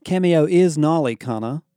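lightly excited Kiwi lad; New Zealand accent, eager. Acted. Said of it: "Jade Calgary said excitedly".

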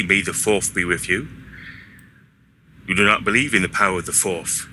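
put-on lisping West Country accent; lightly imitated West Country burr. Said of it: "He has a really strong West Country accent".

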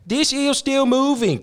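high, slow put-on voice of the girlfriend; mock girlfriend voice. Girlfriend imitated in a high voice. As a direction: lightly caricature the calm girlfriend.

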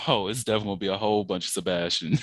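alter ego voice. Pretend. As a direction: slip into another persona. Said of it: "Why your voice change when you say that?".

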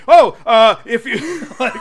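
giggling through a pretend remark; laughing mock line. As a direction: break into laughs mid-line. Acted awkward joke attempt, laughing.

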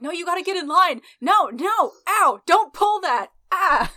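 harried yelling, high and loud; overwhelmed yelps over a rowdy crowd; Botchus. Acted. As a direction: shout frantic orders at unruly kids. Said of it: "Botchus is yelling something like".

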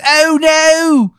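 high, slow, moaning falsetto; dying Steve. Acted. GM voicing the murdered Steve's dying recording, high pained moan. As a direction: whimper it out in a pained squeaky voice. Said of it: "He goes".

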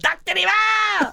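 high, slow, booming cry of the name; booming echoing villain monologue. Retold or imitated. Second take of the cry.

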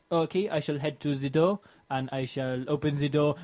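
put-on careful, light French accent; toned-down French accent. Philippe answering the pizza guy, restrained French accent. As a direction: speak formally with a subtle French accent. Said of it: "I'm still managing the French accent".

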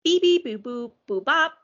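silly cartoon sing-song; goofy SpongeBob nonsense, rising; silly clown. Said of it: "something really moving from SpongeBob".

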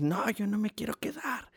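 whiny coworker. Retold or imitated. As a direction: whine it like the sulky blond guy. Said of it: "Y dice". (imitación quejumbrosa y burlona del güero)

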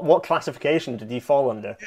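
normal talking voice

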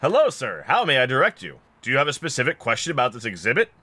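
lifted, over-polite exhibit guide; automaton attendant. Acted. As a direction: chirp out a formal customer-service greeting.

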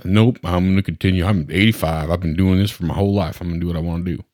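stubborn mock-Southern patient; goofy Southern accent. Elderly patient refusing diet advice, in a goofy Southern accent. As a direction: dig your heels in with a rough Southern impersonation. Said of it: "every patient I talk bad about has a Southern accent".

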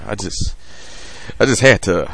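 quiet mob boss dropping low; a crooner. Acted. Father playing Italian mob boss, low and hushed. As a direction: play a soft-spoken mob boss opening a deal. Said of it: "I'm Vic Damone every time".

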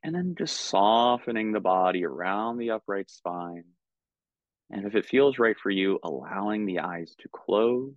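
calm, unhurried meditation guidance with long pauses; measured, soothing meditation teacher; guided meditation. Real, not acted. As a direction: guide them gently into stillness, leaving space between phrases.

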